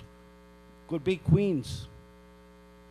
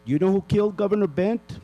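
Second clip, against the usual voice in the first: louder, accusing question; angry challenge; 5 dB louder than usual. Real, not acted. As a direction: demand the answer. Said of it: "I'm really pissed off".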